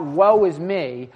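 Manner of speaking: slow, loud anguished cry; Isaiah crying woe before God, slow and loud; crying out in despair. Retold or imitated. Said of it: "he cries out".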